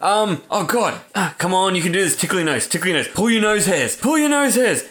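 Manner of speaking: hammed-up panicky urging, pitch climbing; mock panic. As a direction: act out frantic coaxing of a sneeze. Acting out someone failing to sneeze.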